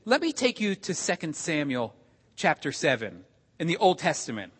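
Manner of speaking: soft, gentle retold suggestion. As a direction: lead a friend gently to the text. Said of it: "very gently".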